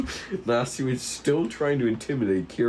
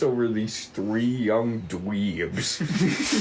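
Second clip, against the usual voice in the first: story narration; 2 semitones higher than usual. Acted. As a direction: narrate it like a dramatic intro. GM scene narration.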